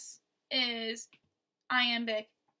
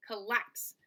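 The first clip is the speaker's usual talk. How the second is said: "collapse" with the weight on "lapse"; light "col", stressed "lapse"; stress on second syllable. Shown as a demonstration. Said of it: "the second syllable is".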